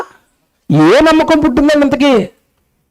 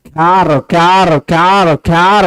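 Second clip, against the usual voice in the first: mock baby wail in short repeats; imitated newborn crying; 4 semitones lower, slower than usual. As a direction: imitate a newborn's cry without real tears. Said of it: "ఏడుపు". (పసిబిడ్డ ఏడుపు అనుకరణ)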